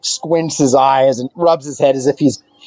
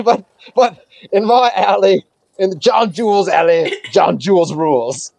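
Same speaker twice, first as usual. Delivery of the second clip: raised, lively mugger voice with stumbles; boastful alley thug; 4 semitones higher than usual. Acted. Mugger declares his rule over the alley, boastful. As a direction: lay claim to your turf, lightly acted. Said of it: "you're in my alley".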